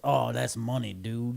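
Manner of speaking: lightly put-on Cajun accent; hint of Cajun twang; imitated Cajun accent. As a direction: quote a Cajun cook's catchphrase. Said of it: "has a thick Cajun accent".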